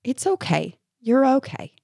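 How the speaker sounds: put-on soft, gentle reassurance to a hurt child; comforting. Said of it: "I was comforting her".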